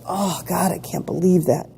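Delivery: understated acted-out complaint; lightly imitated poor-me grumble; mild mock dismay. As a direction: take it seriously, as a mild gripe. Acting out taking it seriously.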